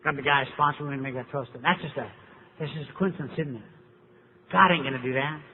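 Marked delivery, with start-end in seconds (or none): 1.6-3.7 dry, quiet mock question; sarcastic. Speaker mocks the audience's coincidence theory, sarcastic. 4.5-5.4 dry, understated mock denial. Sarcastic rhetorical claim.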